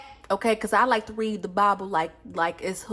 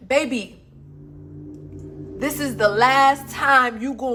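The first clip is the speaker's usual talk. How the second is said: higher and louder, preachy comfort; voicing the spirit portal; 3 semitones higher, 3 dB louder than usual. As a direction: speak as the portal promising to rebuild. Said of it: "this Lionsgate portal is saying".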